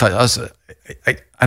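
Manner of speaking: stuck on the first word, then a quick rush; stammering. Real, not acted. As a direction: stumble and restart, searching for words. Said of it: "I'm sorry that I'm stammering a little bit here".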